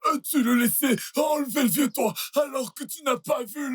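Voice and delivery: outraged stammering. Acted. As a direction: splutter in outrage, voice leaping up. Outraged father stammers at son.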